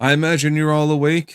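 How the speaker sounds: firm, severe voice. Voicing someone behind a door after knocking: stern voice. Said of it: "You hear a stern voice from behind the door".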